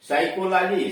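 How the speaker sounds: साइकोलॉजी said sai-ko-lo-jee with no p; silent p. Shown as a demonstration. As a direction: start साइकोलॉजी straight on the s. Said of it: "साइकोलॉजी में पी गायब".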